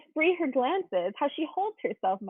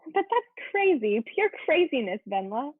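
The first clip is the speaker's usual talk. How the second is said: incredulous; 2 semitones higher than usual. Acted. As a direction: scoff in disbelief. Taya protests Venla's view.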